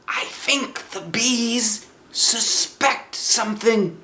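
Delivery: high, bright bear voice calling out; Pooh's cheerful cry. Acted. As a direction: call like a happy little bear. Pooh voiced, secretive.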